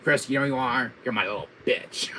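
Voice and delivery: lightly voiced villain taunt at full voice; mock villain put-down; Wesker. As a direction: belittle as an arch-villain. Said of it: "the speaker saying that line".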